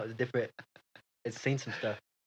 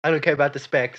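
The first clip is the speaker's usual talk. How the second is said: annoyed boss; 2 semitones higher, 6 dB louder than usual. Acted. Boss cuts worker off.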